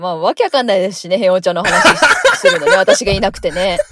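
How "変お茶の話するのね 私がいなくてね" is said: talking through a laugh. Real, not acted. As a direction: laugh while you say it. Jokes about her own absence.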